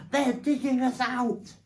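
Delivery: high, loud warning yell; urgent, full-voiced alarm; alarmed shout. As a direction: shout the danger to everyone. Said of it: "he shouted".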